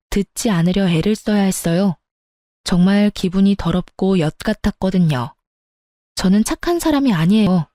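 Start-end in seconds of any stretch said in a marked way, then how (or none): none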